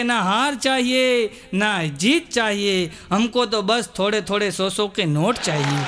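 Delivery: mock poet. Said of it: "ઓલો કવિ કે".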